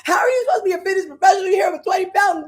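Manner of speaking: high, loud exasperated shriek; panicked outburst. Retold or imitated. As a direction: wail in mock horror at the scale. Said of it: "And I'm like".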